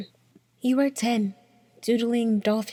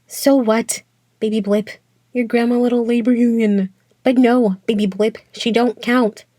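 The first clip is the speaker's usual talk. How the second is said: punchy spoken-word put-down; dismissive taunt; 4 dB louder than usual. Acted. Voice dismissing baby blip's family, taunting and emphatic. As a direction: throw it at them in short, emphatic bursts.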